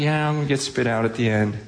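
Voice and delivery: quick, offhand mock nonchalance; casual indifference. Preacher imitating someone unbothered by judgment, casual indifference. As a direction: rattle it off as if unbothered. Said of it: "you're just casually".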